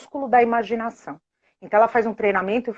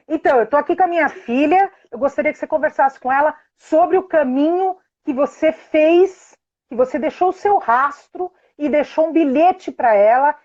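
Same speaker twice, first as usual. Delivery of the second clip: fairy on phone; 4 semitones higher than usual. Retold or imitated. Friend playing fairy on phone.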